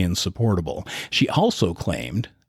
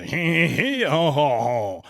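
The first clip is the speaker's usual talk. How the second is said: mock French chuckle; 6 semitones higher than usual. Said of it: "He sounds French to me".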